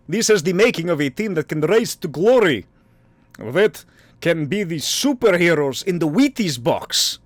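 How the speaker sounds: hammed-up Russian accent. Podcaster quoting Alexei's joke about the team, Russian accent. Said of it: "let me do the accent".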